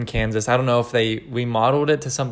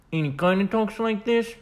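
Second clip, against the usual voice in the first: Godfather voice; 6 semitones higher, 3 dB quieter than usual. Shown as a demonstration. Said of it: "mouth is down".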